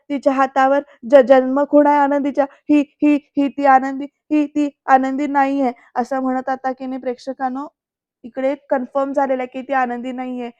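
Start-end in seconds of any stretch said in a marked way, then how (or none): 0.1-5.7 loud, stammering alarm; agitated realization. Retold or imitated. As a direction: blurt it out in shock. Retold Aarti realizing agitated. (घाबरून मोठ्याने, अडखळत)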